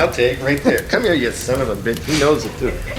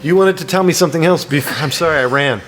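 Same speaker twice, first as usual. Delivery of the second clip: out of breath after running; panting between words; 4 semitones higher than usual. Real, not acted. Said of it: "Sorry, I'm out of breath".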